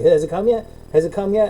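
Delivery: imitated excited kid. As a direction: pester like a kid on Christmas morning, mildly hammed-up. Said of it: "he's excited about it. He's like a fucking kid".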